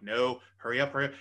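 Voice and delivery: loud retold plea to hurry; frantic urging. Watching the countdown as wife climbs stairs, frantic urging.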